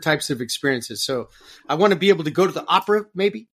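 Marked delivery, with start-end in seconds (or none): 3.1-3.5 higher, laughing mid-phrase; real amused laughter. Real, not acted. Packing for a maybe trip to the opera, amused laughter. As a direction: let a laugh break into the words.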